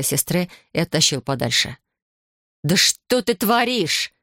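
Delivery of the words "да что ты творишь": yelling. A narrator's reading. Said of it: "заорала восемь".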